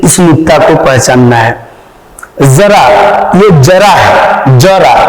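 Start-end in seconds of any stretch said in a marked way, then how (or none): 2.4-2.9 जरा begun with a buzzing z; nukta z sound. Shown as a demonstration. Teacher shows students the nukta word, z in जरा. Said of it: "उच्चारण देखिए". 3.6-4.9 जरा begun with a hard j; plain j sound. Shown as a demonstration. Teacher shows the word without nukta, j in जरा. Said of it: "उच्चारण देखिए".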